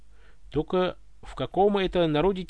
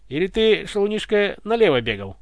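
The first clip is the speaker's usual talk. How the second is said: smirking; 4 semitones higher than usual. Acted. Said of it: "Ухмыльнулся Иван".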